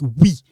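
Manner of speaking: "oui" as a clear wee; French sound. Shown as a demonstration. Teacher contrasting it in French, "oui" said as wee. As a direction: say "oui" gliding from w to ee. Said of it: "But in French".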